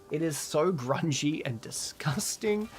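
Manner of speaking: slow, whispered mock disgust; whispering in fake disgust. Real, not acted. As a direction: hiss it out as if it smells bad. Mocking her own accent.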